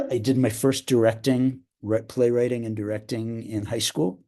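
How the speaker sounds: clears throat, then talks on a bit roughly; throat clearing. Real, not acted. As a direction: speak through a tickle in the throat. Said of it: "I'm coughing".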